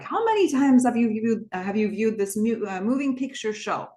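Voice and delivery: hint of a mock Eastern European accent. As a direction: imitate her playful Eastern European accent. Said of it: "switches back into this Eastern European accent".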